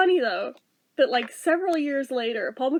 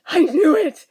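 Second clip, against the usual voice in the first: louder, disgusted I knew it; 7 dB louder, slower than usual. Retold or imitated. Teacher confirming his suspicion, sounding disgusted. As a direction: spit it out in disgust. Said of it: "sounded disgusted with it".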